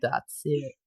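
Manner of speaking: tentative American guy voice; American accent. Acted. Reader unsure of doing a guy, attempted American accent. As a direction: have a go at an American hero. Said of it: "do a guy in American voice".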